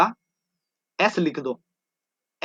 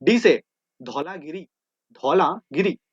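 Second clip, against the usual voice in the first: shouting the letter; slower than usual. Shown as a demonstration. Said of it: "जोर-जोर से चिल्ला के बोलो".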